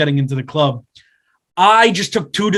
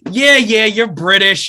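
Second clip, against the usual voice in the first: insistent brushing-off; 5 semitones higher, 4 dB louder, slower than usual. Retold or imitated. Retold stubborn insisting in argument.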